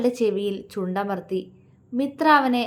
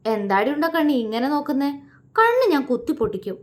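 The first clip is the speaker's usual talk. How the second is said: higher, fast playful fake threat; mock threat, hiding a laugh; 4 semitones higher, faster than usual. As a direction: pretend to threaten while holding back a laugh. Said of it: "അവൻ ചിരി ഒളിപ്പിച്ചുകൊണ്ട് പറഞ്ഞു".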